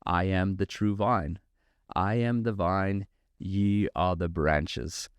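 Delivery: put-on slow, measured African-accented reading of scripture; rich African accent. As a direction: quote the guest in his African accent, unhurried. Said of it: "in his rich African accent".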